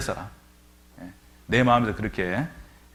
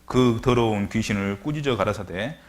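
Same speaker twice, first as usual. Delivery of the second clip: slow, measured Bible reading; scripture reading; slower than usual. Acted. Preacher reading scripture to the congregation, measured. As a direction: read the verses with weight.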